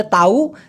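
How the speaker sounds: "তাউ" with the h dropped; colloquial pronunciation. Shown as a demonstration. Teacher showing how the word is said, colloquial pronunciation. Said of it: "এই তাহুকে বলে".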